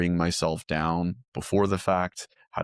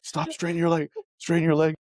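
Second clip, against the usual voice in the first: yoga teacher; 11 semitones higher than usual. Retold or imitated. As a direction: bark the correction.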